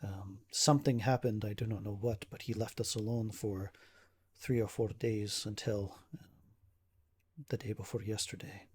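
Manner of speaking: measured, formal recounting, lightly acted; a hint of strain under careful phrasing; troubled nobleman. Ismark recounts the attacks to adventurer, understated troubled manner.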